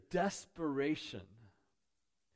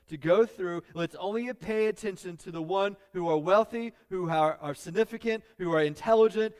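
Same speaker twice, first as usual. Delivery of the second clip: loud, high-pitched preacher's tirade; driving, raised pulpit voice; forceful preaching; 7 semitones higher, 9 dB louder than usual. Acted.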